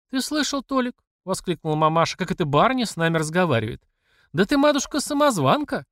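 high, outraged exclamation; indignant mother. Acted. Mamasha exclaims to Tolik, high and indignant. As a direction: call her an impostor.

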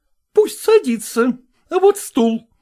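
high, loud, scolding woman's voice; indignant madam. A narrator's reading. Zoya challenging Selezenkin, high and indignant. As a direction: demand it like an outraged choir mistress. Zoya's voice again.

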